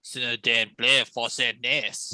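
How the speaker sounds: slow, put-on French accent; mock French accent. Player translating for the French drow, mock French accent. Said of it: "The drow are now French".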